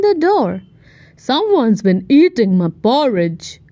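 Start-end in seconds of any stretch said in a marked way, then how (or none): 1.2-3.6 growled. Acted. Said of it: "growled Daddy Bear".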